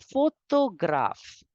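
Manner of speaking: slow it so they hear the t; slow French model. Shown as a demonstration. Teacher slowly models the French word. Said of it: "we have to pronounce it as the".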